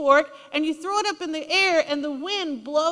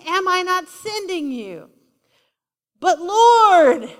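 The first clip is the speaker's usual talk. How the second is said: higher, louder voiced exchange; dramatized plea, louder; acted voices; 4 semitones higher, 6 dB louder, slower than usual. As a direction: play out the dialogue big. God then Gideon voiced.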